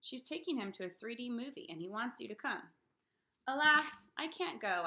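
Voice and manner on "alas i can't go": loud, theatrical alas; hammed-up sorrowful alas; dramatic alas. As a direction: play it like a tragic heroine. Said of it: "I say".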